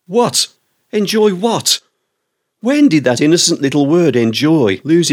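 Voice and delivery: baffled, indignant squeak of a question; a high, incredulous double take; incredulous outrage. Real, not acted. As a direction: shoot up high in disbelief. Indignant reaction to waiter.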